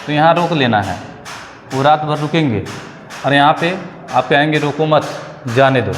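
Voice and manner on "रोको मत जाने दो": रोको मत together, break, then जाने दो; group मत with रोको, then a separate जाने दो; pause after मत. Shown as a demonstration. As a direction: stop after मत, let जाने दो fall. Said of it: "मतलब यहाँ रोकना नहीं है".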